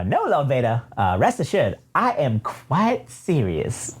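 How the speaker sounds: swooping droid voice; evil droid. Acted. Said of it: "evil ass triple zero pops in and says".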